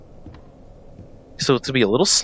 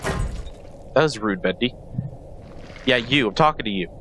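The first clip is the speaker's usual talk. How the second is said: quiet scolding; 4 semitones lower, 5 dB quieter than usual. Real, not acted. Scolding Bendy.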